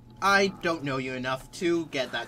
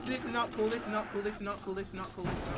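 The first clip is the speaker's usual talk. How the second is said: fading panic; 5 semitones higher, 4 dB quieter, faster than usual. Real, not acted. Panicked repeating under attack.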